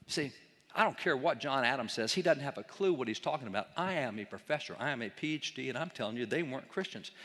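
lightly mimicked self-important academic; a touch of pompous dismissal, imitating a professor; arrogant professor. Lecturer mocks professors dismissing John Adams, arrogant imitation. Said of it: "How arrogant".

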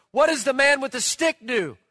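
mock a loud German babysitter; loud German accent. German babysitter asking at the ballgame, in a loud German accent. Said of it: "in a very loud German voice".

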